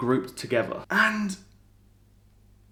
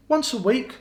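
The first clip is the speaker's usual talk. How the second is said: much higher, eager pitch; excited; 10 semitones higher than usual. Real, not acted. Vlogger pitching a cosy weekly Sherlock story, excited. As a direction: sell it with bright enthusiasm. Enthusing about reading routine.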